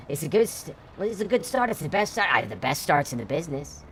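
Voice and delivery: a squeaky mock Trump bragging; Trump impression. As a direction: puff up and brag like a tiny Donald Trump. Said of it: "I sound like a tiny Donald Trump".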